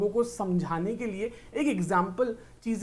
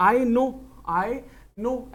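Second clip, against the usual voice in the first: drawn-out knowing reply; 3 semitones higher, much slower than usual. Retold or imitated. Friend quoted.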